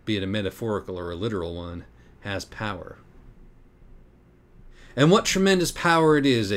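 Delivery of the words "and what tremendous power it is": dark menacing tones. Acted. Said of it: "in his adumbral, soul-melting tones".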